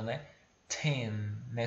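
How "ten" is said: Ten with a puffed t; breathy t. Shown as a demonstration. Teacher showing the aspirated t, puff of air. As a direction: blow out the t of Ten. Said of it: "você quer soprar ela".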